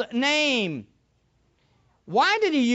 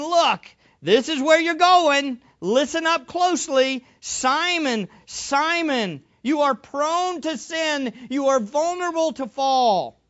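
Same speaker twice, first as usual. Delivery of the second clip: firm warning in a slightly raised voice; emphatic warning; 3 semitones higher than usual. Acted. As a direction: warn him earnestly, leaning on each phrase. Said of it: "as emphatic a way of introducing a warning".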